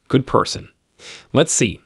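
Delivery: a breathy, whispered taunt from the devil; mocking devil. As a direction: throw the words back at him with a sneer, half-whispered. Lucifer mocks narrator's claim.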